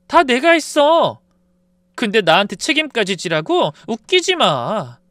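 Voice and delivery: wife shouting down her husband; angry. Retold or imitated. Wife shouts back slowly.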